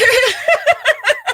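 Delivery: high, loud burst of laughter; high cackling laugh. Real, not acted. Cracking up mid-story: a high, loud cackle.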